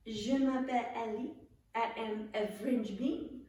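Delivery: put-on playful French accent. Leader shows players a French bean, in a French accent. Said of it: "You're welcome to do a French accent".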